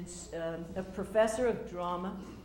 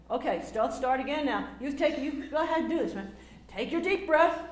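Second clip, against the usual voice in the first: coaching teacher; 5 semitones higher, 8 dB louder than usual. Retold or imitated. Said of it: "Harry says".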